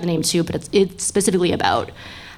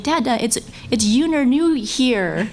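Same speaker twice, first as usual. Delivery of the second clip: put-on lightly higher, slow excited child; imitating her daughter; 6 semitones higher, slower than usual. Daughter in red dress telling her dad, slow excited child voice. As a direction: drag it out like a kid telling dad news. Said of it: "and she was like".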